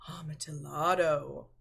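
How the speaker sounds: breathed in a hushed, reverent whisper; awed whisper. Acted. Fortunato savouring the wine's name, hushed whisper. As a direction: whisper it like a secret treasure.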